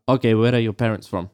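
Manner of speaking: lightly imitated South Asian taxi driver accent; a quick, half-hearted South Asian accent for the driver; mock taxi driver accent. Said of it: "I shouldn't have done that in an accent".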